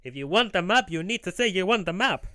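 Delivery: loud, high, scolding cartoon salesman; really pissed off. Map seller scolding a silent customer, loud high angry voice. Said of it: "Tingle's getting really pissed off".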